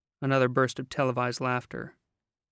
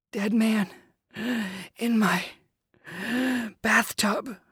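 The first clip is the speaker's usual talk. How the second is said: put-on high, gasping boy's voice; breathless fright; 9 semitones higher, slower than usual. A narrator's reading. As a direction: gasp it out scared. Boy gasps out news.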